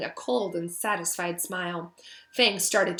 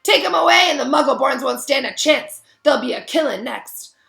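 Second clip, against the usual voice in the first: loud, higher anguished warning; yelling on; 6 semitones higher, 9 dB louder than usual. A narrator's reading. Hagrid warning of killings, still yelling. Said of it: "yelled Hagrid".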